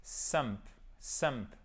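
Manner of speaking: "sump" alone, as a falling stressed syllable; syllabe accentuée. Shown as a demonstration. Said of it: "cette syllabe exactement qui est accentuée". (« sump » isolé, syllabe accentuée)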